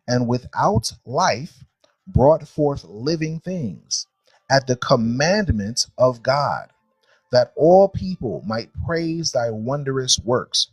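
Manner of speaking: slow, deliberate verse reading aloud; scripture reading. Acted. Teacher reading creation verses to a class, measured scripture reading. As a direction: read it out solemnly, phrase by phrase.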